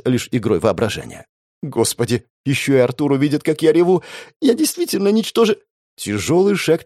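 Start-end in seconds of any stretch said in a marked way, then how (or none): 1.6-5.6 crying despair. Acted. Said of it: "безудержном плаче".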